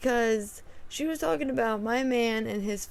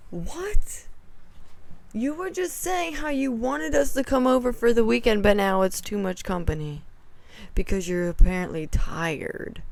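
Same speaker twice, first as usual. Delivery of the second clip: indignant outburst; 4 dB louder than usual. Retold or imitated. Retold indignant reply.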